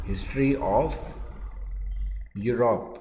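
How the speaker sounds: "history of" then a pause before "Europe"; dictation in chunks. Shown as a demonstration. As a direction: break the phrase for writing. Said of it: "Europe का इतिहास". (रुक रुक कर लिखवाना)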